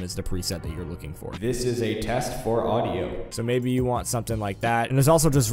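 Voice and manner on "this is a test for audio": church hall echo on the voice; reverb. Shown as a demonstration. Demonstrating a reverb preset, roomy reverb. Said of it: "church hall or large room".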